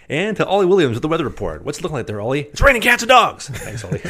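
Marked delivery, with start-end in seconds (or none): 0.1-2.4 higher, fast news anchor voice. Retold or imitated. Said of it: "Tom Tucker's like". 2.4-3.5 much higher, loud shouted weather report; Ollie Williams voice. Retold or imitated.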